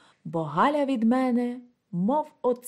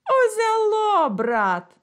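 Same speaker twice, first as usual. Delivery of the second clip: bitter exclamation; 11 semitones higher, 5 dB louder, slower than usual. Acted. A man bitterly exclaiming узяло to his friend. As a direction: exclaim узяло sharply high and louder, falling.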